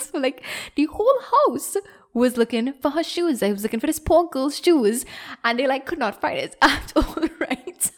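real giggles running through the telling; can't stop laughing while telling it. Real, not acted. Giggling through the shoe hunt story.

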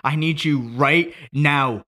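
slow, high, loud begging; grieving son begging his dead father to wake up; desperate shouted plea. Acted. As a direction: cry out for him to wake, drawing each word out.

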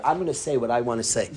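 low, quick line breaking into a chuckle; laughing defiance. Retold or imitated. Coach refusing to leave the podium, laughing defiance. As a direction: imitate a speaker amused by his own refusal. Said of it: "He starts laughing his head off".

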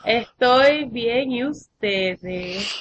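very slow, stretched words; drawn-out reply. Real, not acted. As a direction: stretch out every word of the answer. (respuesta muy lenta y alargada)

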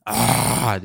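half-hearted "aah" yell; restrained imitation of shouting; mock yell. Shown as a demonstration. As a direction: demonstrate a scare-off yell without raising the voice. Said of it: "diye bağıracaksın".

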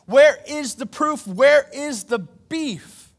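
fiery pulpit challenge; preaching at full force. Acted. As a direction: thunder it at the congregation.

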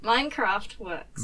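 Australian Minecraft. Shown as a demonstration. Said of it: "every single time I say Minecraft in an Australian accent".

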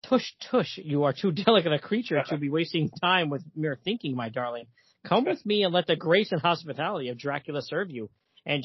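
lightly voiced courtly vampire, mostly low; theatrical count's seduction, lightly acted; Dracula. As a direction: woo her with a touch of old-world grandeur. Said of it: "and he says".

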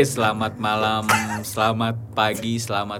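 put-on old radio announcer. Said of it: "enakan yang tadi ya".

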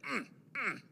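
quiet high strained "mm"; short stifled grunts, imitating a friend; imitated straining grunt. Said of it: "he's over here in the corner doing this".

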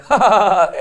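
loud, high smug laugh; rich-boy laugh. Retold or imitated. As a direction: laugh like a spoiled rich kid. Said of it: "ऐसे जो हंसते हैं".

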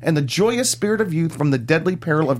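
dramatic trailer narration; movie trailer voice. Pretend. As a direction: epic movie trailer announcer. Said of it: "do your movie trailer voice".

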